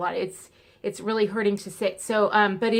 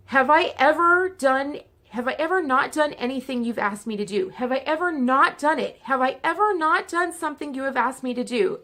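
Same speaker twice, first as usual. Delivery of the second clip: indignant; 4 semitones higher than usual. Retold or imitated. Retelling how she confronted her pain doctor, indignant and insistent. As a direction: push back hard, repeating the question.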